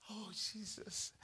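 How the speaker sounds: high, slow laughing exclaim. Real, not acted. Preacher laughing at his own money joke. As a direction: laugh it out, amused.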